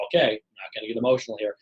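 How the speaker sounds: low, composed inner voice; calm self-talk. Acted. Brain choosing facts over emotion, calm self-talk. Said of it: "we have the ability to go".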